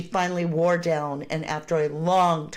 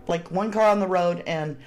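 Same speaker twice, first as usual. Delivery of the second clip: talking through hiccups; words broken by hiccups; hiccuping. Real, not acted. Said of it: "I'm hiccuping".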